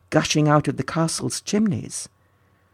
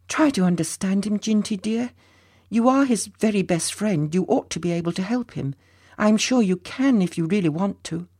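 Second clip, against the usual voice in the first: higher, gentle coaxing mother figure; coaxing Bettina; 5 semitones higher than usual. Acted. Higher gentle voice, Bettina coaxing Ginty to help his friend. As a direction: soothe the boy into helping his friend.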